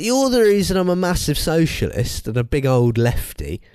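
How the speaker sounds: hammed-up retold protest; mock accusation. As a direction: pin the blame, comically exasperated. Retold row with mum.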